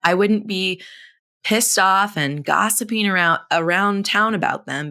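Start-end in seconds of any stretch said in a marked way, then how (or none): none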